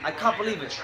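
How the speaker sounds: "can't" with a British "ah" vowel; British long A. Shown as a demonstration. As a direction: say "can't" as "cahn't", British style. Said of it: "you guys say, like".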